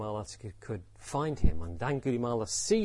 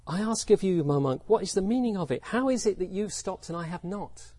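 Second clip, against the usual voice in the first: higher, insistent questioning; baffled challenge; 5 semitones higher than usual. Acted. Angulimala asking the monk what it means, baffled challenge. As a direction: demand an explanation in puzzled urgency.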